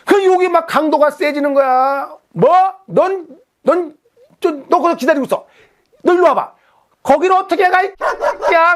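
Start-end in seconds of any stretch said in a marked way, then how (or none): 2.3-8.8 high, heated challenge to come over; furious threats. Retold or imitated. Angler daring the other to come over, high and furious. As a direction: escalate into a shouting threat. Quarrel grows stronger.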